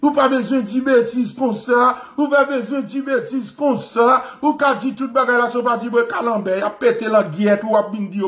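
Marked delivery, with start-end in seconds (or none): 0.0-2.0 wag a finger like a prissy Frenchman; a hint of a shocked French gentleman; mock proper French. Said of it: "Vin propose ou te parler français". 2.2-4.2 giggling half-mock French voice; laughing.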